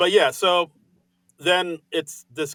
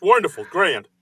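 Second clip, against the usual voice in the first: forced cheerful; 5 semitones higher, 4 dB louder than usual. Pretend. Mock reassurance bit continues.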